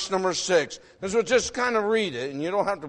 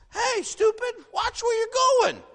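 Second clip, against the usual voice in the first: put-on much higher barked shout at a clumsy kid; pitched-up mock scolding shout; mock harsh yell; 14 semitones higher than usual. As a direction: yell it like a fed-up adult scolding. Voicing harsh yell at grandson.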